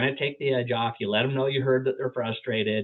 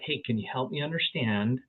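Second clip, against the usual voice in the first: softer, gently asking for help; sincere, gentle ask; 3 dB quieter than usual. Retold or imitated. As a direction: ease into it, softly and sincerely. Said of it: "be like".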